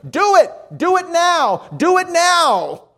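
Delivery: very high, loud repeated shouts; shouted commands. Retold or imitated. Monk chasing the newcomer with a club, shouting orders. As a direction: drive each order harder, stretching the last one. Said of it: "brandishing that club and shouting".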